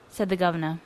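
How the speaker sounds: ordinary delivery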